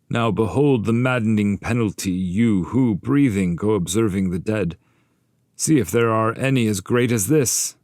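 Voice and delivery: high, loud voice of the headless shade; tormented Bertrand. Acted. Bertrand de Born shows his severed head, high loud lament. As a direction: proclaim the penalty with grief.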